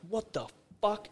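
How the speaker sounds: high-pitched startled disbelief; retold shock. Telling friend about waking from a nightmare, shocked.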